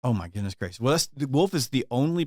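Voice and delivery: usual speaking voice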